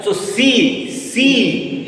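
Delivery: "C" said as French "si", like English "see"; teacher modelling "C" as a long "see"; pronunciation demo. Shown as a demonstration. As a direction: show the clear ee sound in "C". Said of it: "so E sound will come".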